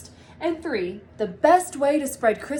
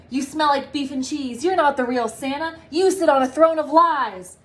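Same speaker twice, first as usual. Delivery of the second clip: Buddy's accusation; 3 semitones higher, 6 dB louder than usual. Acted. Buddy accuses fake Santa.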